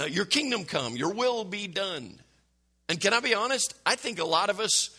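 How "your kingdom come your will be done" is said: KINGDOM and WILL weighted, YOUR light; measured recital stressing kingdom and will. Shown as a demonstration. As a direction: lean on kingdom, then on will. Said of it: "put the emphasis on the wrong word".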